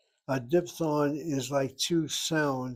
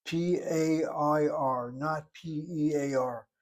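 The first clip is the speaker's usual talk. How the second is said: slow, letter-by-letter spelling; deliberate spelled-out letters; careful spelling; slower than usual. Shown as a demonstration. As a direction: spell it out slowly, each letter separate. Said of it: "I've gotta be careful".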